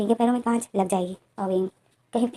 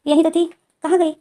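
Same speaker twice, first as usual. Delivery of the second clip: puzzled surprise; 6 semitones higher, 7 dB louder than usual. Retold or imitated. Wing can't find his tea.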